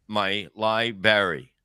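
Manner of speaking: "library" said slowly as "lie-berry"; misspelled-word reading. Acted. Reading a chat message as spelled, "library" as "lie-berry". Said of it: "That's how he spells it".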